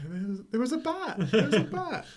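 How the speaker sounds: high, breathless hammed-up fright; mock scared woman. Reviewer imitating the scared woman telling the kid, mock high fright. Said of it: "so scared of this thing".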